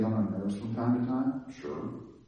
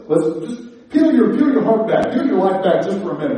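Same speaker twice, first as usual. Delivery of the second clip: preaching louder; 7 semitones higher, 7 dB louder than usual. Real, not acted. Preacher presses the congregation.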